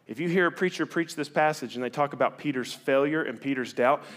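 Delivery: ordinary delivery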